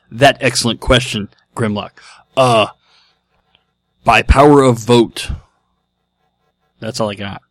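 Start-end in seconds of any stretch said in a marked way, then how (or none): 0.1-5.3 lightly voiced caveman robot reply; Neanderthal robot voice. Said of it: "in your best Neanderthal robot voice".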